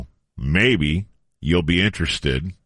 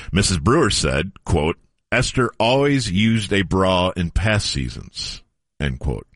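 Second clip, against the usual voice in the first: newspaper story read; 2 semitones higher than usual. Acted. Host reading an old sports story to co-hosts, measured news read. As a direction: read it out like a print report, quotes set apart.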